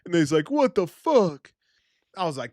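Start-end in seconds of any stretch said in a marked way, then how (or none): 0.5-1.5 high, slow imitation of shock; drawn-out high mock disbelief; mock outrage. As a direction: imitate the stunned, hurt brother. Imitates bleeding brother's shock.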